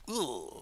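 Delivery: short disgusted "ugh"; disgusted groan. Acted. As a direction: groan it in distaste. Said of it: "I'm just like".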